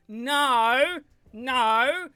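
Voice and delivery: mocking commenters. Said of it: "I keep getting comments telling me that".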